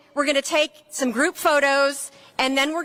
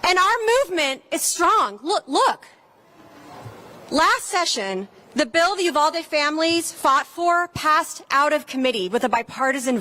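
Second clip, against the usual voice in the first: rally speech; 2 semitones higher than usual. Acted. Speaker at a gun-safety rally.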